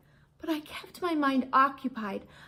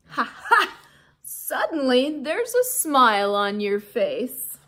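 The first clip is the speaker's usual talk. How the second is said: loud jolly voice; hearty laugh; 5 dB louder than usual. Acted. Aldo pleased with the hamster, loud and jolly. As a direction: laugh it out proudly.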